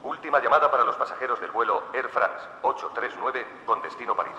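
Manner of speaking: airport announcement. Acted. Airport announcements before travel segment.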